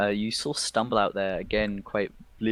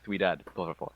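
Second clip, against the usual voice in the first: Spanish; 3 semitones lower, 4 dB quieter than usual. Acted. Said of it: "I can't do an English-Spanish accent".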